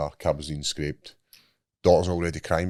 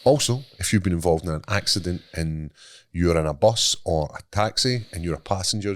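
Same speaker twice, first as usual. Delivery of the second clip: ad read. Acted. Sponsor ad read.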